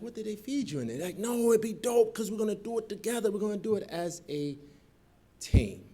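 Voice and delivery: high, eager voice of the friends; excited friends. Retold or imitated. Friends pitching college together, high eager voice. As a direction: sell the plan with excitement. Friends' enthusiastic reply quoted.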